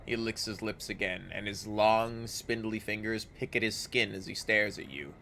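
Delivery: measured storybook narration; story narration. A narrator's reading. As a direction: read it like a dark fantasy narrator. Reads game description.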